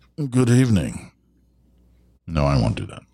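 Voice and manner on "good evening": posh British newsreader voice. Host starting to read a story from the BBC aloud, in a BBC newsreader voice. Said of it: "I'm going to read it with my best BBC voice".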